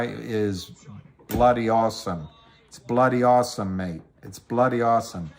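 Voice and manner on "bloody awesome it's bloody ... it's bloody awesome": light put-on British accent on bloody awesome, mate; mock British. Streamer hamming up a British cheer, mock British accent. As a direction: play the cheeky Brit. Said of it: "It's British, isn't it?".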